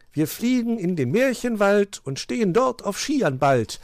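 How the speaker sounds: high, rejoicing verse; jubilant rhyme. A narrator's reading. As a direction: cheer it out as a rhyme. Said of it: "jubilierte Willi in einem Reim".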